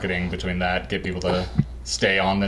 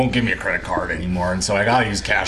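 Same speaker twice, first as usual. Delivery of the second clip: put-on Southern accent. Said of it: "You sound so Southern".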